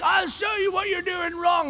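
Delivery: high, loud scolding; retold angry snap. Dad grabbing the mop from his daughter, angry. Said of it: "and I'm like".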